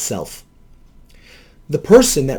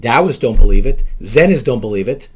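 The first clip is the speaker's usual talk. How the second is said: usual speaking voice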